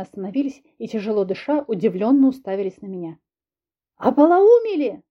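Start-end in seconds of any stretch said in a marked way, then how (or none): 4.0-5.0 much higher, louder yell. Acted. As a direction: bellow at the fighting men. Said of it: "заорала я".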